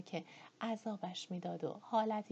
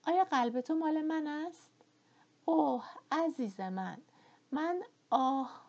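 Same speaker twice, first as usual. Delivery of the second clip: higher, louder, desperate plea; pleading Scarlett; 6 semitones higher, 6 dB louder than usual. A narrator's reading. Scarlett begging Ashley to confess his love, high urgent pleading. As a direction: beg him to say he loves her.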